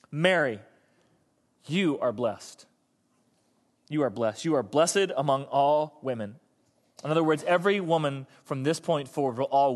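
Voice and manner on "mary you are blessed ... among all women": low, measured, soothing proclamation; calming assurance. Acted. Preacher as Elizabeth blessing a frightened Mary, calming assurance. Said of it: "a knowledge that almost calms and soothes".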